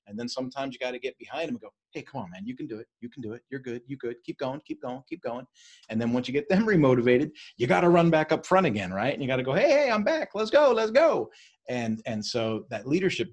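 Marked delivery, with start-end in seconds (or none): 1.9-5.5 quiet, coaxing "keep going"; soft encouragement. Retold or imitated. Leader behind the stragglers urging them on, soft and coaxing. 9.5-11.3 much higher and louder, pumped-up "let's go"; excited rally call. Retold or imitated. Leader back at the front rallying everyone, loud high rally cry.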